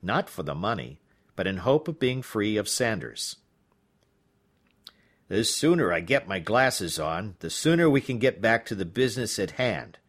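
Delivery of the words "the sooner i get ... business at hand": very proper. Acted. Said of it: "he said very properly".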